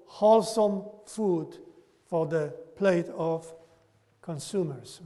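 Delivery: measured sarcasm, slowing on the key words; sarcastic. Real, not acted. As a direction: say it as a dry, sarcastic quotation. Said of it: "I say this sarcastically".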